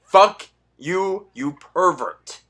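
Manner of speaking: loud angry jab, then a slow, drawn-out insult; angry outburst. Real, not acted. Disgusted viewer cursing at the president. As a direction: spit it at him like a curse.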